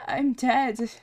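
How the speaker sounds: loud, slow, pained remembering; anguished dying character. Acted. Character remembering his true name and death, anguished. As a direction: let every word ache with pain.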